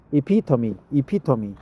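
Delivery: "epitome" as ih-PIT-uh-mee; "epitome" ending in a sounded "mee"; practised pronunciation. Shown as a demonstration. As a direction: drill "epitome" with stress on the second syllable. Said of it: "I forgot the pronunciation".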